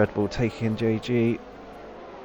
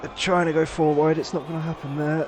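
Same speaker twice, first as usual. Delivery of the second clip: higher-pitched, urgent play-by-play; excited commentary; 5 semitones higher than usual. Real, not acted. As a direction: call the chaos as it happens. Hectic first corner.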